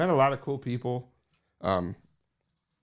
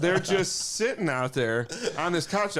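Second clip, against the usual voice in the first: laughing; 5 semitones higher, slower than usual. Real, not acted. Laughing at friends.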